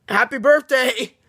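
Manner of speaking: slow, drawn-out birthday wish; retold birthday cheer. Family to thirteen-year-olds, mock celebratory cheer. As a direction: imitate a celebratory birthday call.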